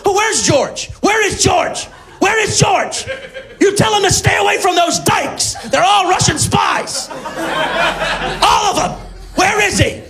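put-on confused old woman. Joke with Alzheimer's rambling.

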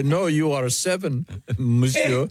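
lightly mocking French accent; teasing reply in a mock French accent. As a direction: put on a playful French accent. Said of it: "So you like the French accent".

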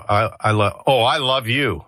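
stumbling, then saying "I love you" tenderly; hesitant I love you. Shown as a demonstration. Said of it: "I can go".

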